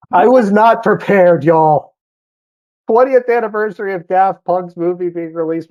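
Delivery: high, loud, slowed-down cry of disbelief; stunned disbelief. Real, not acted. Disbelief at the twentieth anniversary.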